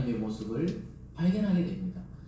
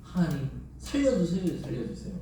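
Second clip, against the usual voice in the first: imitated crying out. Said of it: "막 울부짖는 거예요".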